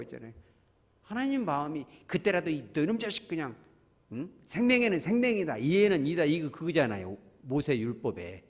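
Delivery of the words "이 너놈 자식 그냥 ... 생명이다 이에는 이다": stern wrath. Retold or imitated. God's imagined wrath at Cain.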